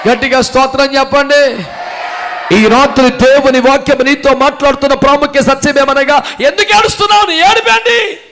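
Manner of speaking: loud rallying sermon, rising to a high shout; shouted, climbing pulpit climax; full-force preaching. Real, not acted. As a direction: rouse the congregation with ringing calls.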